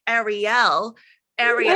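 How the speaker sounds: "Ariel" with a wide American "air" first vowel; American pronunciation. Shown as a demonstration. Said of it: "it sounds terrible 'cause we're like".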